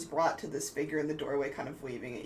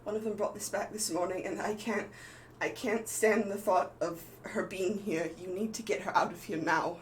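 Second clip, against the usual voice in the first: lightly voiced pleading woman, slightly higher; urgent doll character; 4 semitones higher than usual. Doll creature handing over a baby, lightly acted urgent plea. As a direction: plead with a touch of urgency, pitched up. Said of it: "and she goes".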